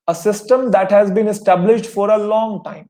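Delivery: very slow, each word spelled out for notes; slow dictation. Shown as a demonstration. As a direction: read it out slowly so students can write. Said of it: "इसका मतलब क्या होता है?". (बहुत धीरे, शब्द-शब्द अलग करके बोलना)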